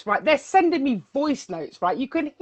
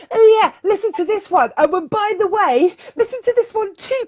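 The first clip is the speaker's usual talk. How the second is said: excited; 6 semitones higher, 3 dB louder than usual. Retold or imitated. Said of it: "And I was like".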